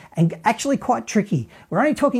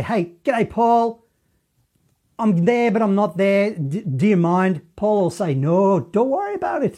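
bad impression of a singer; 3 semitones higher than usual. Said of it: "my bad singer impersonation".

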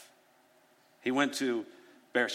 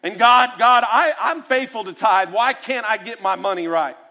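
mock churchgoer whine; 5 semitones higher, 3 dB louder than usual. Churchgoer's mock complaint continues.

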